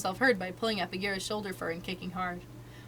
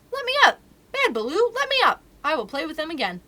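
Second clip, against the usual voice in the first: shouting protest; 8 semitones higher, 9 dB louder than usual. Acted. Mowgli pinned down by Baloo.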